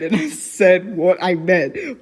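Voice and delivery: ordinary delivery, nothing marked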